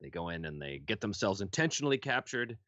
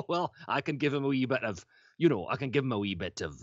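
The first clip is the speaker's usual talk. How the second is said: hint of Scottish; 4 semitones higher than usual. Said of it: "And I thought".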